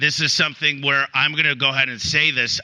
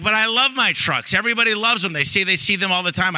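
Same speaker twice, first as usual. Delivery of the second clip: higher-pitched mock protest; 6 semitones higher than usual. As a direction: plead in defence of something you love. Retelling own protest to mentor.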